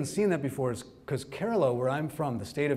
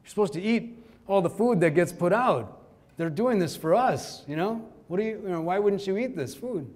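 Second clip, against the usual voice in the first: mock scolding from an uncle, pitched higher; 5 semitones higher than usual. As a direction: retell a relative's telling-off, lightly indignant. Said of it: "he's actually scolding me".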